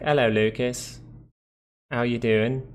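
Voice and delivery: mock posh British accent; posh British imitation. Posh Brit greeting Lucas, imitated posh accent. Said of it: "Other ones are more posh".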